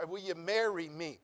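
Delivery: "Will you marry me?" slowly with weight on "marry"; slow, deliberate proposal. Shown as a demonstration. Preacher repeating his proposal slowly and deliberately. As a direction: spell it out word by word. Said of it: "I didn't ask you want a hamburger".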